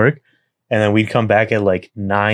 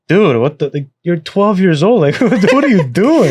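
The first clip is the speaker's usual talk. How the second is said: mildly yelled parental scolding, pitched up; mock parental yelling; 7 semitones higher than usual. Parents scolding a twelve-year-old who wet the bed, mock yelling. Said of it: "they're yelling at me".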